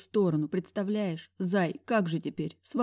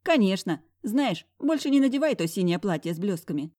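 cheeky friend; 3 semitones higher, 4 dB louder than usual. Acted. Friend voiced loud.

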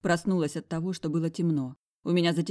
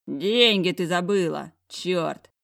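calling out; 6 dB louder, slower than usual. Acted. Man calls after fleeing woman.

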